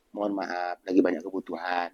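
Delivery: soft, polite refusal; gentle refusal. Shown as a demonstration. Preacher models a polite reply to a beggar, soft. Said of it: "Nah, bilang gitu aja".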